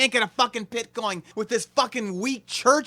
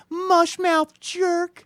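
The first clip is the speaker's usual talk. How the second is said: contemptuous sneer; 7 semitones higher, much slower than usual. Acted. Insulting the host.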